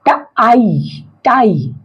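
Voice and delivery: "ट", pause, long "आई", then "टाई"; silent E blending. Shown as a demonstration. Teacher showing silent E, "टाई" blended from "ट" and "आई". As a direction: sound out "टाई" in two parts, then join. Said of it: "इसका उच्चारण होगा आई".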